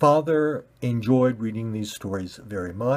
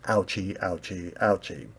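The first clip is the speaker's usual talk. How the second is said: put-on soft, babyish ouchie; mild whimper; 3 semitones lower, 6 dB quieter than usual. Red ball rolling around in pain, soft whimpering. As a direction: whimper like a hurt child.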